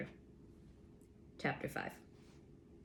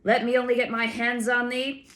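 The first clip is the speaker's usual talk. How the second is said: much higher, loud furious roar; yelling with rage; 6 semitones higher, 6 dB louder than usual. A narrator's reading. Bellow it with fury. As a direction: giant roars at the sentry after the arrow, enraged. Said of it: "Jack Jingly yelled with rage".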